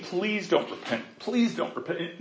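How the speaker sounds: hushed plea. Pretend. Jonah's secret wish voiced.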